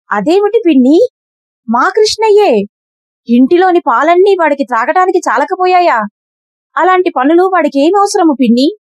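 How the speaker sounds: put-on surprised mother defending her child; Yashoda protesting. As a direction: Yashoda can't believe it, protective.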